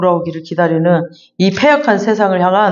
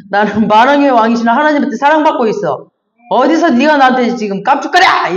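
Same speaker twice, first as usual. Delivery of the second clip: defiant comeback; 5 semitones higher than usual. Pretend. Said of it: "이러면서".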